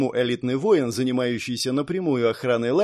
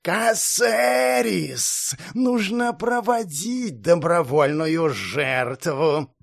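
calling out; 4 semitones higher, much slower than usual. Acted. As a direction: call far into the gate. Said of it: "крикнул куда-то за".

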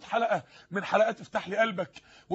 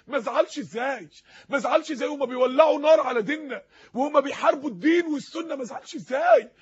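impassioned preaching; 3 semitones higher than usual. Real, not acted. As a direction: preach it as an aggrieved appeal. Preacher's impassioned rhetorical questions. (خطبة منفعلة باستنكار وحرقة)

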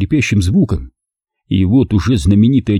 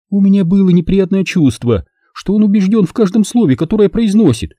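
lightly voiced seductive woman, pitched higher; higher woman's voice, lightly played; Zelda's voice; 11 semitones higher than usual.

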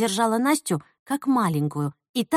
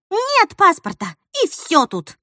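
higher and louder, slow; exasperated; 8 semitones higher, 5 dB louder, slower than usual. Acted. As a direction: blurt out in exasperation. Nastya despairs over passport.

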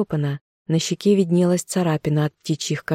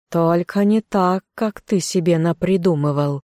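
stern. Acted. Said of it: "Баюн проговорил строго".

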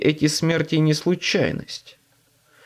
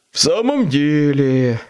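grating demon voice, louder; creaky demon voice; 3 dB louder than usual. Acted. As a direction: rasp it like a demon. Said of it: "проскрипел Шонзи".

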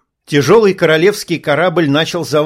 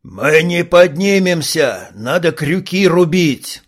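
slow, strained yell; yelling pirate; 2 semitones higher, slower than usual. Acted. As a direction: shout it over the noise. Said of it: "заорал один из пиратов". (пират кричит)

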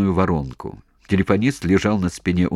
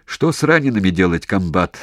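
shouting question; 3 dB louder than usual. Acted. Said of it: "кричал Валясин".

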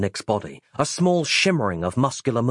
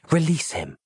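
Roz pleading, pitched up; gentle higher plea; higher pleading woman's voice; 5 semitones higher than usual. Acted. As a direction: heroine begging him to stop. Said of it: "she whispered softly".

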